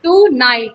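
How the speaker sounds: to night in two distinct beats; split into syllables. Shown as a demonstration. Teacher counting syllables, to night said as two parts. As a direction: separate to from night clearly. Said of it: "नाइट दूसरा syllable".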